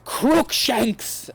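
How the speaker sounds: high, shouted incantation; shouted spell. A narrator's reading. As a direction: fire the spell out. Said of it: "I shouted at him".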